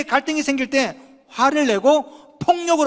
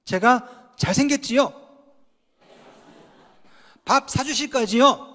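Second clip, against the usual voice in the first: playful teasing; slower than usual. Pretend. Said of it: "자, 한번".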